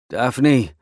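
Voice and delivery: strained call for Daphne. Acted. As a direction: call her name through the pain. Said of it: "I try to call out".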